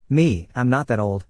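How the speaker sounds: slow, mildly offended protest; a touch of wounded pride, drawn out; slight indignation. Retold or imitated. Retold adult mildly indignant at a child's guess. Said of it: "with a slight tone of indignation".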